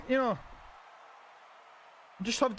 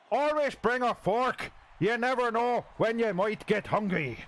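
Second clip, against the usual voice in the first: a clumsy put-on Irish accent; bad Irish accent. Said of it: "really bad attempt at an Irish accent".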